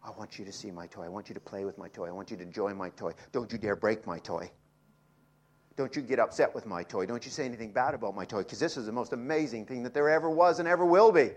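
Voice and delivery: lightly voiced excited child, quick; a hint of a child showing off his toy; child with a new toy. Preacher voicing a child to the congregation, mildly childlike. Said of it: "like a little child with a new toy".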